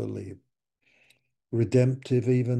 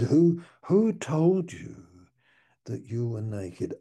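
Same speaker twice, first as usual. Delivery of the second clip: God's voice; 2 semitones higher, 4 dB louder than usual. Acted. God questioning Adam.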